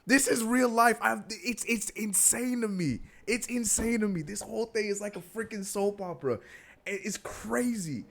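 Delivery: high-pitched, laughing through words; can barely talk for laughing; laughing fit. Real, not acted. Host cracking up at the Lakers story.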